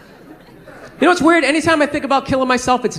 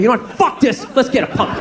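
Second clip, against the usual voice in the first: mock-angry, punched swear word; angry brain. Shown as a demonstration. Brain demanding a pumpkin, mildly acted anger. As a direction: insist irritably, a touch of acted anger. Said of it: "That's how angry my brain is".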